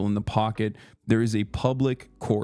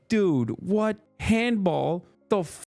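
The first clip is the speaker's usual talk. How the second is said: mock disbelief; 6 semitones higher, slower than usual. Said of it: "I'm like".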